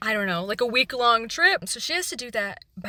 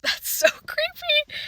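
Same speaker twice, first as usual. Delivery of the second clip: laughing; 4 dB louder, slower than usual. Real, not acted. Laughs, creeped out.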